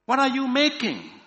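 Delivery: high-pitched shouted question; loud shout. A narrator's reading. Another cave dweller questioning the silent stranger, loud shout. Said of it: "another shouted even louder".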